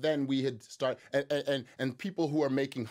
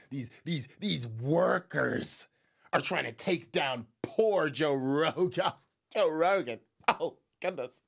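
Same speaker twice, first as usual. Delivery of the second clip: mock dramatic pity; slower than usual. Mocking pity for Rogan.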